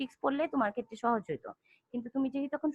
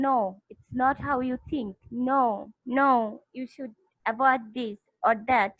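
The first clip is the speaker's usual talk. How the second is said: slow scolding teacher; much slower than usual. Retold or imitated. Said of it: "তোমাকে বলতেছে যে".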